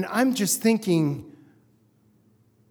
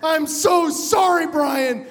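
pleading, raised-pitch apology; earnest apology; 5 semitones higher, slower than usual. Retold or imitated. Pilot apologizing to his passenger, earnest pleading. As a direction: insist on how sorry you are.

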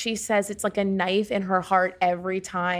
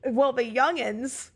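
put-on old prospector. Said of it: "Eighty-year-old Laura comes out".

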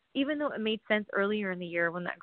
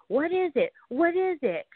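puzzled inner voice; 8 semitones higher, 4 dB louder than usual. Retold or imitated. Her own puzzled thoughts.

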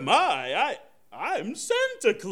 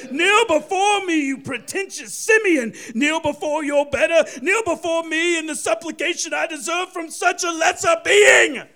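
booming arrogant alien overlord; 7 semitones higher, 6 dB louder than usual. Acted. Santa demands supplication, shouting.

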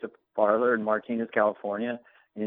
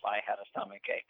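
ordinary delivery

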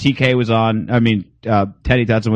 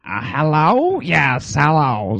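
higher, hammed-up Jewish accent; mock Jewish accent; 5 semitones higher, much slower than usual. Host mocking the caller's voicemail in a hammed-up Jewish accent. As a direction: overdo a Jewish accent on hello. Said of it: "Like, is he saying".

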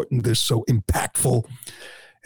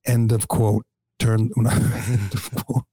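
slow, halting misread teleprompter line, laugh breaking in; mock the stumbling read; Biden misreading; slower than usual. Mocking Biden reading stage directions aloud, slow and halting. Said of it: "the guy who says".

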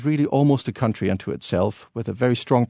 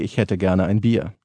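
High German; 4 semitones lower than usual. Shown as a demonstration. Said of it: "in High German it would be".

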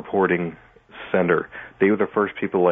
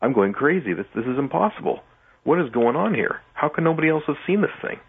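retold distress; 8 semitones higher than usual. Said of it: "almost sick. I was just like".

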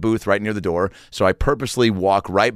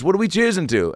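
high imitated rock star voice; a famous singer; 9 semitones higher than usual. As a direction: ask it in a pitched-up celebrity impression. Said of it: "He goes".

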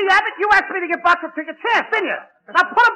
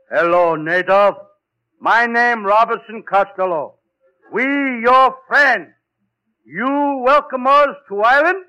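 slow, lower, halting pidgin to a native; broken pidgin; 5 semitones lower, slower than usual. Acted. Costello greeting the native in slow broken pidgin. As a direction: speak slow pidgin like to a stranger. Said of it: "what kind of dialect is that".

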